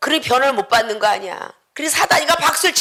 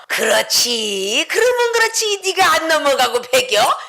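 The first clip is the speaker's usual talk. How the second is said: gloating Satan. Acted. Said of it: "사단이가 박수를 막 쳐".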